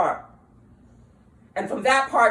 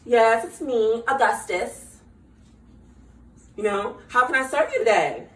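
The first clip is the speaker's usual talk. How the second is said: servile service voice. Shown as a demonstration. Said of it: "I talk like this".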